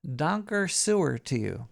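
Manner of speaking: "Donker Sewer" in a loose, hammed German accent; mock German. Thanking a subscriber in mock German accent. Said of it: "A little German in there".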